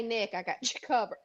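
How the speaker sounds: throat catching after a cough; choking on smoke. Real, not acted. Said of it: "I'm choking".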